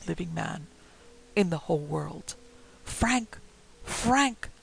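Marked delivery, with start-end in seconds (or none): 2.8-3.4 raised ghostly call, higher; a cry from outside the door. A narrator's reading. Dead wife calling her husband through the door, mild ghostly cry. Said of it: "cried the voice". 3.8-4.5 higher, eerie ghostly cry; calling out louder. A narrator's reading. Dead wife calling her husband again, rising eerie cry. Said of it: "cried the voice".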